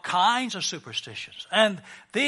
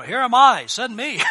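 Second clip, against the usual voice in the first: mock eager volunteering; 4 semitones higher, 8 dB louder than usual. Voices Peter eager to escape.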